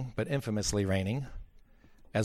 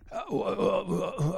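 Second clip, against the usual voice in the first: flustered stammer; 8 semitones higher than usual. Retold or imitated. Caller stammers for an answer.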